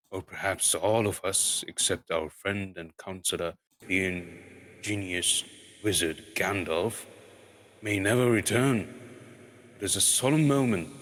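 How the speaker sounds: lightly voiced pompous dwarf king; slow, solemn, long-winded oration; formal speech. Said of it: "This was Thorin's style".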